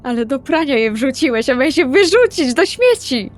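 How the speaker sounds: 1 exasperated scolding. Acted. Exasperated sister scolding Kamil.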